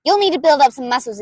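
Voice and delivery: bulldoze him with gleeful energy; brash inventor girl, throaty and loud; loud brutal May voice. Acted. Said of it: "I do it in the back of the throat, and I do it loud".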